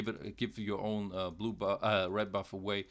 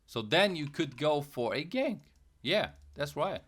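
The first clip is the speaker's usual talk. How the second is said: voice cracking; 4 semitones higher than usual. Real, not acted. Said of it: "Voice cracked over there".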